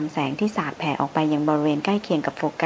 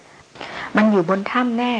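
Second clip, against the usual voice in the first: higher, louder cry; 6 semitones higher, 5 dB louder, much slower than usual. A narrator's reading. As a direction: call it out sharply. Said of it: "ชายันร้องขึ้น". (ร้องขึ้นเสียงดังสูง)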